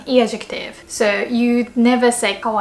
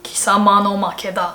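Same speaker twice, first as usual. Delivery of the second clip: villain voice. Shown as a demonstration. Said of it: "in a godlike villain language".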